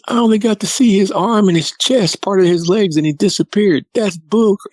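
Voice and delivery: high-pitched protest, imitating a cheated son; indignant outburst. Son only glimpsed the creature, indignant outburst.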